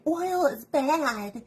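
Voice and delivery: mocking. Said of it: "the people that are like".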